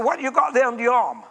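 lightly voiced blunt Yorkshire plumber; a hint of Wigglesworth's northern English bark; mild impression of an old English preacher; Wigglesworth's way of speaking. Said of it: "That's how he spoke".

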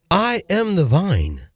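very slow, each word of "I am the vine" separate; emphatic repeat. Real, not acted. Preacher repeats the verse for listeners, slow and emphatic. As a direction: spell out "I am" in full, slowly.

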